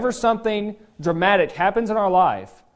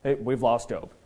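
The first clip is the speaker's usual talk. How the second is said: low, much softer dismissive aside; friends mocking Job; 8 semitones lower, 10 dB quieter than usual. Friends writing off Job as crazy, low and hushed. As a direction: mutter it like he's lost it. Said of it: "his friends are like".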